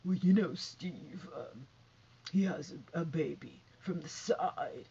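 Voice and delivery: a lightly voiced breathy mock, trailing to a whisper; mocking her way of talking. Vlogger mocks a guest's halting talk, lightly imitated. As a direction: mimic her halting, hushed delivery. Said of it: "who's talking like this".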